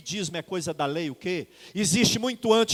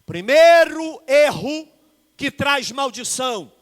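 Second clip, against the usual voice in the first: emphatic announcement; 5 semitones higher, 9 dB louder, slower than usual. Real, not acted. Announcing first error.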